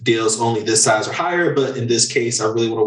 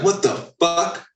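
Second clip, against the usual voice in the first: higher, slowed, bewildered client voice; overwhelmed client; 6 semitones higher than usual. Retold or imitated. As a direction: play the lost, confused buyer drowning in info. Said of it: "You're like".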